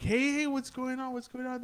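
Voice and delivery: high, urgent call up the stairs. Retold or imitated. Running upstairs to his frightened family, high urgent calling.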